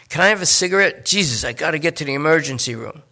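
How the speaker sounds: a nervous addict talking his way out; junkie Lester. Acted. Lester asks for cigarette.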